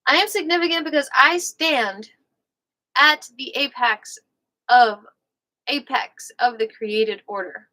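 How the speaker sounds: light Southern reading voice; a touch of the American South on each phrase; Southern accent. Real, not acted. Host channels the book's author reading aloud, light Southern accent. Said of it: "might be from the South, so I'm, like, channeling him".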